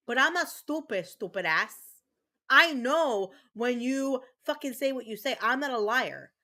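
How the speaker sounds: angry and loud. Real, not acted. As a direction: spit it out, furious. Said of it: "Queen Competence is pissed right now".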